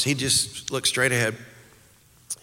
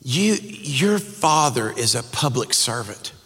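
mother scolding; 4 semitones higher than usual. Retold or imitated. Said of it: "she goes".

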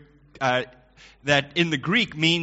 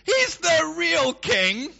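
lightly voiced king; 11 semitones higher, 3 dB louder, much slower than usual. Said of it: "he starts off saying".

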